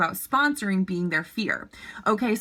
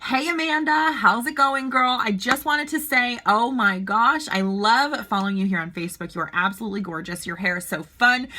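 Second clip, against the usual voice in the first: bubbly sponsor voice. Shown as a demonstration. To a prospect on Facebook, a friendly gushing voice message. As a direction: gush like you're hyping a new friend. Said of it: "with this exact voice".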